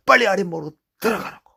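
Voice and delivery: fast, high and loud fussing; hurrying mother. Retold or imitated. Mother hurrying her cold son to the warm floor, fast and high. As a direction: rush him inside like a mother.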